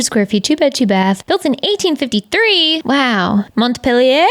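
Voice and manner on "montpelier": "Montpelier" as French-style mont-pel-YAY, questioning; unsure pronunciation. Shown as a demonstration. Apologetic house hunter, unsure French-style guess at "Montpelier". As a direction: try "Montpelier" ending in a rising -YAY. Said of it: "I don't know. I'm sorry".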